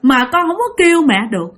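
lightly voiced sobbing toddler; crying child voice. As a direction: speak like a frightened three-year-old, near tears. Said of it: "nó khóc quá trời khóc luôn".

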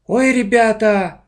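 a loud, slow, high gasp of admiration; gasping delight. A narrator's reading. Class monitor admires her classmates, gasping. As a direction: gush over them breathlessly. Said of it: "ахала староста Ира Егорова".

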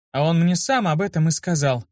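high, scornful retort; contemptuous spit. A narrator's reading. Girl throwing it back at Luke with contempt. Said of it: "с презрением в голосе выплюнула".

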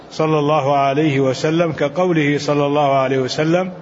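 measured classical Arabic text reading; deliberate recitation of a commentary, phrase by phrase; formal read-aloud. Acted. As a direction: read the scholarly text out evenly. Reads scholarly commentary aloud.

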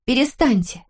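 high desperate shout. A narrator's reading. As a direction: cry out to stop him. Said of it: "закричала Дав".

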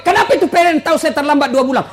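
rapid-fire accusing question; mock accusing demand. Wife demanding how PLN knows, mock accusation. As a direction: rattle it off as an indignant wife. Wife interrogates husband over leaked secret.

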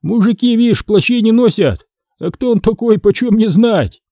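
high-pitched, acted musing aloud; cheeky remark. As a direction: size up the guest aloud, unimpressed. Кузнец дерзко рассуждает о госте. (дерзко, высоким голосом)

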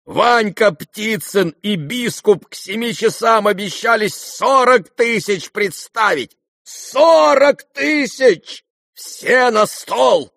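loud, high shout over the price. A narrator's reading. Rogozhin shouting his bid at the gathering. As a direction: bellow the number out. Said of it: "закричал Рогожин".

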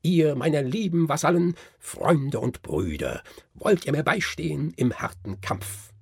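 rally your loyal vassals; the Nutcracker calling his vassals to battle, rousing. Acted. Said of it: "und rief".

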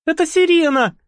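mild horrified cry. Acted. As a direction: gasp it out in horror. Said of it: "ужаснулась Игла".

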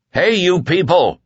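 high, desperate call; cried out. A narrator's reading. Whitney calling out to the crowd, high cry. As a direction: cry out to stop them. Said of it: "Whitney cried".

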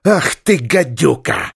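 gasping, stunned insult; shocked at her cheek; stunned outrage. Acted. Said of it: "обомлел Сергей Васильевич". (ошеломлённо, с возмущением)

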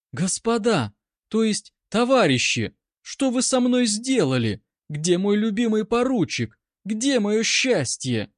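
high, hammed-up tragic wail, slowing at the end; трагическое восклицание. A narrator's reading. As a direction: play the wronged bride to the gallery. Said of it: "с трагическим выражением воскликнула". (театрально-трагично, высоко, с замедлением)

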